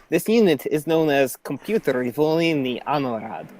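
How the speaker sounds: lightly Russian robot voice; hint of a Russian accent. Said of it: "I'll try the Russian accent".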